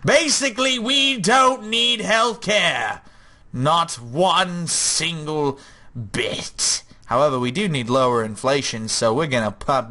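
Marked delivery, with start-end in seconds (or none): 0.0-6.8 higher, slow hammed-up Greek ruler accent; mock Spartan king boasting, drawn out. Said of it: "How do you do a Greek accent anyway?".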